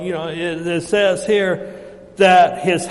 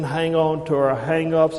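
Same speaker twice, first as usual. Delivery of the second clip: ordinary talk, nothing marked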